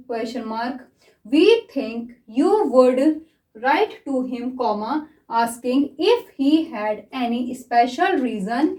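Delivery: very slow dictation, each phrase spaced out with pauses; slow dictation reading. Shown as a demonstration. Shorthand teacher dictating the passage slowly to her class. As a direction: read it out slowly for students to take down. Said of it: "मैं इसको read कर रही हूँ".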